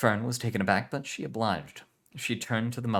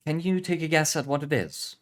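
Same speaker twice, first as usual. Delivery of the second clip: put-on Spanish accent; 9 semitones higher, 6 dB louder than usual. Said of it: "Spanish heritage".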